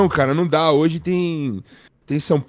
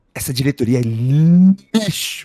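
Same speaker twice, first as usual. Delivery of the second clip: acted villain-style voice. Act out a man who sounds like the Joker talking, in a Joker voice. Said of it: "o cara coringando, assim, parece o Coringa falando".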